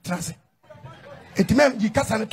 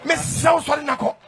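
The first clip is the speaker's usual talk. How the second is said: loud, slow, higher closing call; closing preacher call; 4 semitones higher, 4 dB louder, slower than usual. Real, not acted. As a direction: rouse the church as you close.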